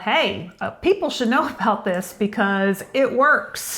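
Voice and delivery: slipping into a Tennessee country accent; a touch of Southern country twang. Real, not acted. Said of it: "are you doing the country accent?".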